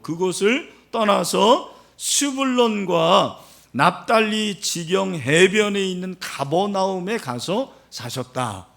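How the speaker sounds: usual speaking voice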